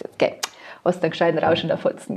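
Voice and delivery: put-on a mother scolding her drunk daughter at the door. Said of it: "meine Mama dann gesagt".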